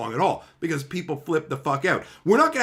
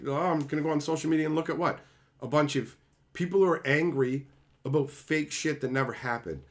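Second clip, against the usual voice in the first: sarcastic mock quote; 4 dB quieter than usual. Mocking an imagined social media user.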